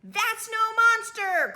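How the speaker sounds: high, loud, slow declaration; loud cry. A narrator's reading. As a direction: announce it boldly. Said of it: "cried Oscar".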